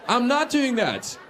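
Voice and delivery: slow, drawn-out doing; slow emphatic. Acted. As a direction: spell it out slowly. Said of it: "repeated punchline".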